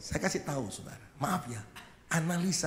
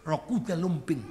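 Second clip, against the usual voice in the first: smirking scoff; 3 semitones lower than usual. Retold or imitated. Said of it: "Ada istri yang nyengir".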